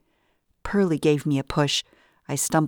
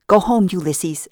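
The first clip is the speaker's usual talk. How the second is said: loud, higher call to the dog; yelling; 4 semitones higher, 4 dB louder than usual. Acted. Captive yells at her dog to run home, loud. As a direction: yell it to send the dog away. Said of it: "I yelled".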